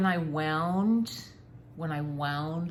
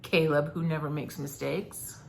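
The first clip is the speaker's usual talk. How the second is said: sarcastic. Acted. Sarcastic thanks.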